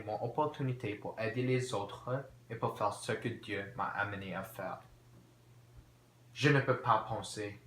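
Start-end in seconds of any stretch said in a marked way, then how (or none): 6.3-7.6 acted frustration, getting louder; mounting agitation. Valjean alone, unable to think straight, increasingly agitated. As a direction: build louder on the repeat, agitated.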